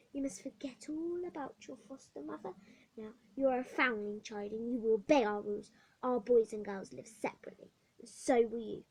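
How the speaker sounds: cold, firm rule-giving; stern matron. Acted. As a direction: state the rules without mercy. Matron lays down rules.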